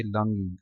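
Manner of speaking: लॉन्गिंग said "LAANG-ing", open "ah"; open "laang" vowel. Shown as a demonstration. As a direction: start लॉन्गिंग like Punjabi लांग. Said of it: "Punjabi में word होता है दीवार लांग".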